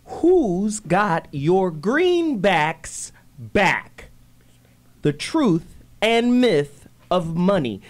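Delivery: dramatic slow whisper to open the show. Acted. Host whispers the topic title to listeners.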